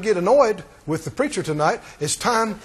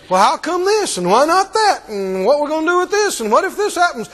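fretful questioner; 4 semitones higher than usual. Retold or imitated. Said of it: "you don't talk like that".

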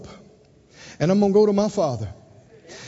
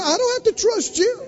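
higher, firm father voice; higher, firm parent refusing trust; 6 semitones higher than usual. Retold or imitated. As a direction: lay down the law but lovingly. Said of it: "He said".

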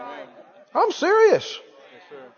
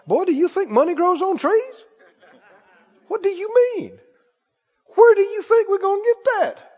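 fretting parent over bills; 3 semitones higher than usual. Retold or imitated. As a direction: scold about money, climbing in pitch. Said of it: "talk like this in their kitchen".

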